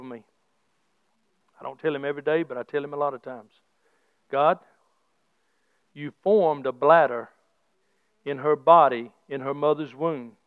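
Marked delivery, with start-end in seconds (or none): 4.3-10.4 quiet prayer. Retold or imitated. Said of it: "I prayed this last night".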